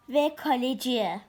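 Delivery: slow, loud dramatic call; football commentator. Acted. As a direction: stretch it like a big save call.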